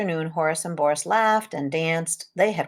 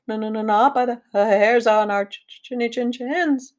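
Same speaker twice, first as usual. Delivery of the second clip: high, stammering scared piglet; trembling; 5 semitones higher than usual. A narrator's reading. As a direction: tremble through the words, voice catching. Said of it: "trembled Boris".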